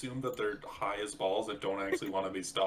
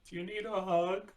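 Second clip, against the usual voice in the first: tender coaxing, lightly acted; mock consoling; 8 semitones higher, slower than usual. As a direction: gently offer comfort in a put-on little voice. Acting out consoling a crying person.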